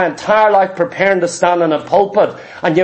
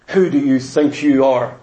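much lower, scornful retort; indignant scorner; 10 semitones lower than usual. Acted. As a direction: sneer it back like an offended scoffer. Scorner answering the reprover.

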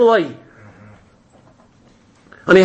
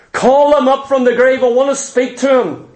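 raised, insistent order; urgent command; 5 semitones higher than usual. Acted. Saul orders the witch to call up Samuel, insistent. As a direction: demand it in a higher, pressing voice.

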